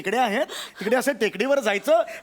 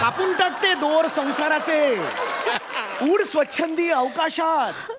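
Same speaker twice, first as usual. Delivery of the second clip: mock poetic; 3 semitones higher, slower than usual. Husband poetic send-off.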